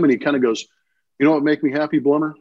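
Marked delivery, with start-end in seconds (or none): 1.2-2.3 dry question to a teammate; imitated deadpan. Teammate asking during batting practice, deadpan. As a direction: imitate a straight-faced teammate. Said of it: "deadpan, straight face".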